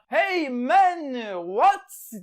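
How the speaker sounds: loud, high mock shout; shouted hey man. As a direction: call out across the water. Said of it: "diye bağırıyorlar".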